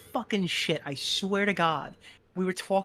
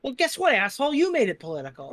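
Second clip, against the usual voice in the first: mock angry retort; 5 semitones higher, 4 dB louder than usual. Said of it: "It's like".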